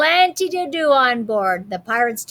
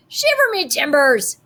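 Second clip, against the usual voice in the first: pirate voice; 4 semitones higher, 3 dB louder than usual. Acted. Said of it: "the pirate said".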